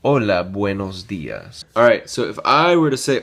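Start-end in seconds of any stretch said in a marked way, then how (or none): 0.0-1.6 Hola with a silent H, oh-la. Shown as a demonstration. Teacher modeling Hola for students, silent H. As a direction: say Hola as oh-la, no H sound. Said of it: "H is silent".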